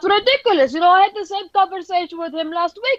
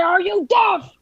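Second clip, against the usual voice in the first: shouting. Acted. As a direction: drill sergeant yell. Sergeant yelling at private.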